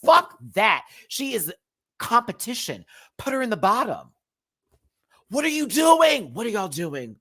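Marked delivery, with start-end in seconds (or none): 5.3-7.2 exasperated. Real, not acted. Outraged at contestants' votes.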